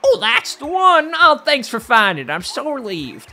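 relieved postman, starting high and loud then easing; a light character voice, gushing then settling; lightly voiced postman. Postman thanks Mario for the found letter, lightly voiced relief.

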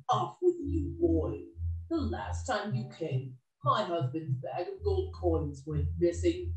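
high-pitched scolding woman; ogre's wife, reproachful. Acted. Ogre's wife turns Jack away over missing gold, reproachful.

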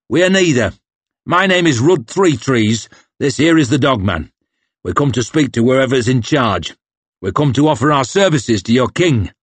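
a hint of a calm, steady warrior; patient Three Trees. Three Trees introducing himself to the officer, patiently. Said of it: "clear and patient".

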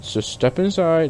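slow mock robot voice; mimicking the robot. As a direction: drawl it out like the game's robot. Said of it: "He just said".

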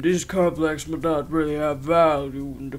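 slow, deliberate reading voice; game text read-out. Acted. Player reading game text aloud, deliberate read-out. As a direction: read the on-screen text out, measured.

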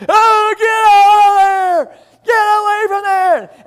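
high, loud, drawn-out retold scream; lady screaming. Platform lady yelling at tourists to back away, loud high scream. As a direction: yell the warning like a panicked lady on the platform. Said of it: "we heard some lady screaming".

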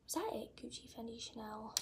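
quiet recount to herself; muttered recount. Real, not acted. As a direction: mutter the list to check it. Recounting the list under breath.

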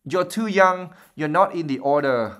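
high-pitched imitation of a worried mum; Fred mimicking his mother in a high voice; mock mother voice. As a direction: squeak it like his mother, fussing. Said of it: "in a high-pitched voice that sounded uncannily like his mother's".

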